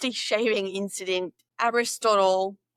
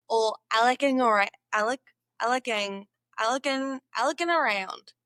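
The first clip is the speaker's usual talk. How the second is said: meant Aussie, came out American Southern; accidental Southern accent. Shown as a demonstration. Learner hearing her Aussie attempt turn Southern, Southern accent. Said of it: "That went southern".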